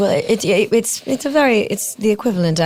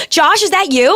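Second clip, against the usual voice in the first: high, loud dreamy sleep talk; 9 semitones higher, 6 dB louder than usual. Acted. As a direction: call out in your sleep. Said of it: "she just went right to sleep".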